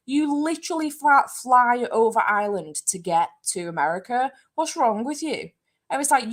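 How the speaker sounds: high-pitched exasperated disbelief, retold; incredulous retort. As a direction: replay arguing with a clueless friend. Retold incredulous argument with friend.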